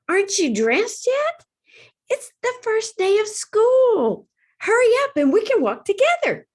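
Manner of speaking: dragonfly hurrying her friend to school; eager little dragonfly. A narrator's reading. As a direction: urge your friend to hurry.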